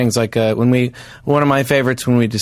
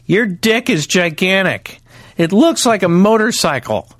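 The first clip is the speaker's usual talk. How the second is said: slow, slightly raised reading of a yell; half-hearted mock yell; 4 semitones higher, slower than usual. Reading a friend's tweet about motorcycles, half-hearted slow yell. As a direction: read out the yell, drawn out but not truly shouted. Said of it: "I yell".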